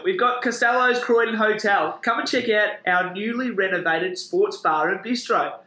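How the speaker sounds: upbeat ad read; sponsor read. Acted. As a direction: read the sponsor spot like radio. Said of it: "I'm gonna do this in a Geordie accent".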